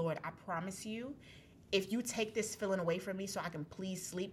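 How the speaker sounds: soft, subdued bargaining prayer; quiet plea. Retold or imitated. Begging the Lord for relief, quietly. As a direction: plead under your voice.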